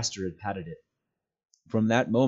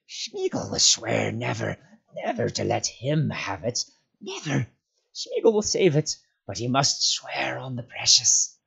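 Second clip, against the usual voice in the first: hoarse whisper; 4 semitones higher, 4 dB louder than usual. A narrator's reading. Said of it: "whispering hoarsely".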